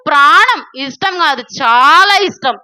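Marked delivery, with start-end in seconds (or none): none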